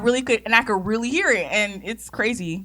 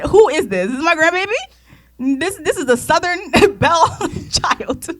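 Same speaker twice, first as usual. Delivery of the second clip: loud, higher mock grandma with a Jamaican accent; 6 semitones higher, 5 dB louder, slower than usual. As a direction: play a baffled Jamaican grandma, breaking into laughter. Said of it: "She said it in her Jamaican accent".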